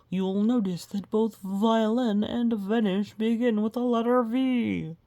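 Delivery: grand stage-magician announcement; showman magician. Acted. Mumford announces his vanishing trick to the crowd, grandly hammy.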